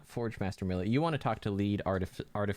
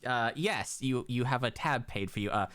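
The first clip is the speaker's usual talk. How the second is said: shopkeeper voice; 6 semitones higher than usual. Acted. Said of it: "he hands it back and goes".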